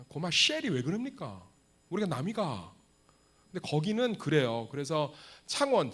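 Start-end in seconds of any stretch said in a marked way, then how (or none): 0.1-2.7 Gyeongsang dialect impression. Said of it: "경상도 쪽은".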